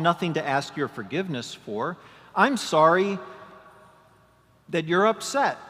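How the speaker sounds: self-justifying voice. Pretend. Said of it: "It means".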